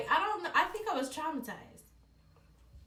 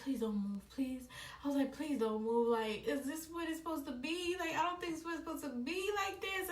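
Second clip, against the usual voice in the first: panicked pleading; 3 semitones higher, faster than usual. Retold or imitated. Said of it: "I started panicking".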